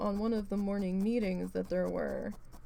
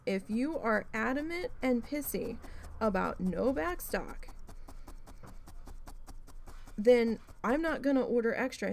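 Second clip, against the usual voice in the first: indignant retort; 3 semitones higher than usual. Retold or imitated. Arguing back at angry boss.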